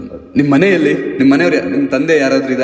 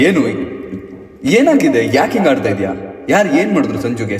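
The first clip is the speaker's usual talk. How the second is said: urgent demand; 4 semitones higher than usual. Acted. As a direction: press her to say what happened. Officer questions distraught woman. (ಜೋರಾಗಿ ಗಂಭೀರ ಪ್ರಶ್ನೆ)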